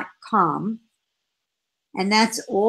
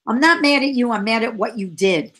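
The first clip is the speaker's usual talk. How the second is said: daughter's protest; 3 dB louder, faster than usual. Retold or imitated. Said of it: "daughter answers mother".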